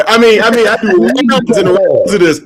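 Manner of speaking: talking through a laugh. Real, not acted. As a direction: chuckle it out while explaining. Laughing over joke.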